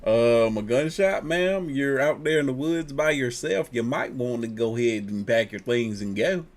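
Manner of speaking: lightly put-on accent, drawled like a concerned local. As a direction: play a worried stranger with a hint of a put-on accent. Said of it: "I don't know where that accent came from".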